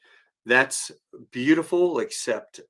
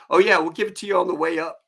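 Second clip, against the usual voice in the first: fast, loud, higher Aussie brush-off; mock Australian; 8 semitones higher, 5 dB louder, faster than usual. Guide waving off worries about training, breezy mock Australian. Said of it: "The guy's like".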